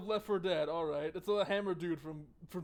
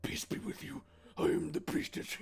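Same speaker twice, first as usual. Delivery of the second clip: put-on priestess, voice without full tone; proper priestess voice. Player retrying the priestess greeting, exaggerated priestess voice. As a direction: overdo a priestess voice, rasped or whispered. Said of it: "I need a proper priestess voice".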